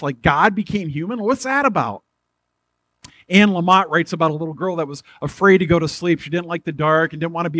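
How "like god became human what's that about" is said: mock disbelief. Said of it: "It's like, what?".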